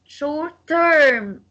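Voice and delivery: "Short-term" with TERM punched; stress on TERM. Shown as a demonstration. Teacher shows compound adjective stress, TERM stressed in "Short-term". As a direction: hit the second word of "Short-term". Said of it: "stress will go on term".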